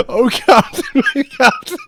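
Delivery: high, laughing hammed-up salute; mock tribute. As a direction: cry it out like a film tribute.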